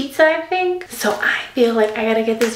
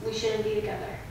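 feigned reluctance; 4 semitones lower than usual. Pretend. Girlfriend pranks boyfriend with breakup, feigned reluctance. Delivers fake breakup line.

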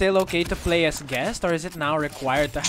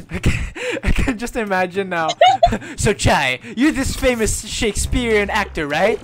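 high, loud laughing talk; 8 semitones higher, 8 dB louder than usual. Real, not acted. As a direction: squeal it through laughter. Laughing fit over sneeze.

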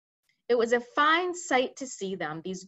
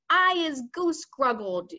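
slow, louder giant howl; 4 semitones higher, 5 dB louder, slower than usual. Acted. Manhugger howling from his ropes, slow and loud. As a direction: howl it out in misery. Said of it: "howled the man hugger".

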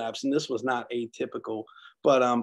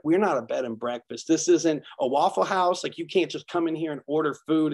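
louder, higher mock scold from the nurse; retold nurse's scolding; 4 semitones higher, 4 dB louder than usual. Charge nurse scolding a hungry patient who asked for food, mock angry. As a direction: smack the clipboard and snap back at the patient. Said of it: "almost yelling".

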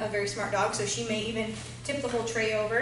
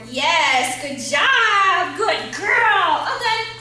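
high-pitched dog praise; 7 semitones higher, 10 dB louder, much slower than usual. Real, not acted.

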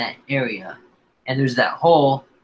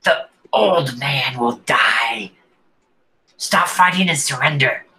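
goblin threat. Acted. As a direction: threaten them as a goblin captor. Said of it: "he responds back in Goblin saying".

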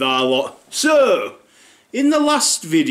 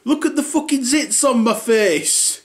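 put-on higher whingeing kid voice; 8 semitones higher than usual.

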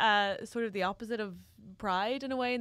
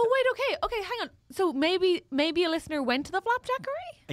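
panicked; 6 semitones higher than usual. Real, not acted. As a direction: cut in with rising alarm. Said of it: "Did you hear the panic in my voice".

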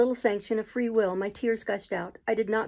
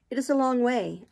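higher and louder, a near-tearful sigh; sad repeat; 4 semitones higher, 4 dB louder than usual. Acted. Jane repeats it to her master, near tears. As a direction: say it again, close to tears. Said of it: "I again said".

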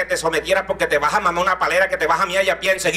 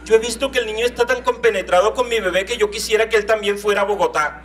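Bogotá lady; 3 semitones higher than usual. Retold or imitated. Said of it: "le dice a mi mamá".

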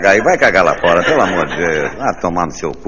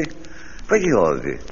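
slow drawn out; 4 semitones lower, 6 dB quieter, much slower than usual. Acted. Slowed drawn-out repetition.

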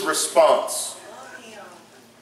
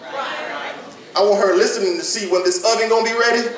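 mock Martha. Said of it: "You know how idiotic that sounds".

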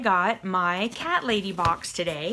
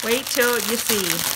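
slow, spaced-out "Wait till you see"; drawn-out teaser; slower than usual. Real, not acted. Teasing a reveal, repeated slower.

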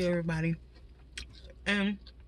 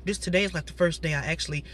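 a bit congested voice; slightly blocked nose; stuffy nose. Real, not acted. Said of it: "I still sound a little stuffy".

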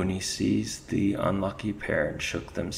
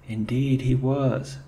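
high, loud Irish ferret voice, spooked; shaken Irish ferret; 6 semitones higher, 7 dB louder than usual. Acted. Ferret backing up his mate to the chief, Irish lilt.

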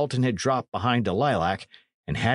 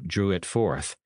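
plain reading voice

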